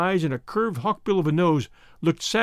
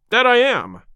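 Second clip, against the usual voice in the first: bold, higher and louder reply; crying out; 6 semitones higher, 6 dB louder than usual. A narrator's reading. Boarder accepting a rival's challenge, crying out boldly. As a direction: rise eagerly to the challenge. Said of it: "cried McMurdo, springing to his feet".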